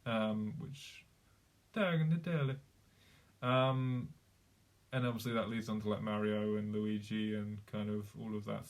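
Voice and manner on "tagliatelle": "Tagliatelle" in a put-on Italian accent; Italian-accented key word. Shown as a demonstration. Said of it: "with Italy, it's".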